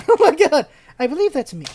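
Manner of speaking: real laugh breaking through; laughing exclamation. Real, not acted. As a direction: burst out laughing, loud and high. Laughing at her own description.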